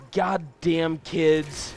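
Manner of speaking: drawn-out, mock movie narrator; movie announcer voice. Narrator voices the waitress's thoughts, slow movie announcer voice. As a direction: stretch each word like a trailer narrator. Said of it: "a guy, a movie announcer voice".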